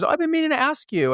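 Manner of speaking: lightly mock a nosy neighbour; high, eager stranger voice; curious stranger. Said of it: "and people would go".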